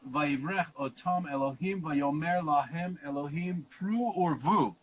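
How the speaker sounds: slow, deliberate Hebrew chant; Hebrew recitation. Acted. Teacher recites the Hebrew verse for listeners, slow intoning.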